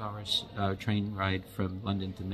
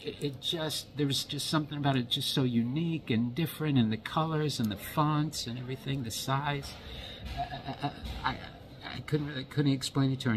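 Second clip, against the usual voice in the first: overjoyed; 5 semitones higher than usual. Retold or imitated. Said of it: "the utter joy in my face".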